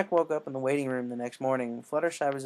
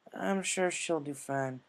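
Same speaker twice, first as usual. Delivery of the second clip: reassuring; slower than usual. Acted. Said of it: "A J reassured".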